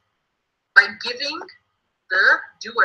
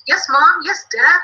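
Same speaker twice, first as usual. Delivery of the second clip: higher, louder pretend child reply; eager kids answering; 5 semitones higher, 4 dB louder, slower than usual. Teacher plays kids replying to parents, eager. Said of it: "They're like".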